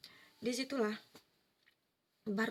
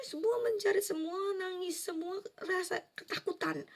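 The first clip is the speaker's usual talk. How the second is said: crying voice; 9 semitones higher than usual. Real, not acted. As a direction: speak through real sobs. Recalling terrified crowd at judgment.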